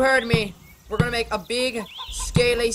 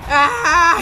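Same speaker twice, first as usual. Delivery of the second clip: short, raised mock scream; 4 semitones higher, 6 dB louder than usual. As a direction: let out the creature's playful cry. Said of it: "he screamed".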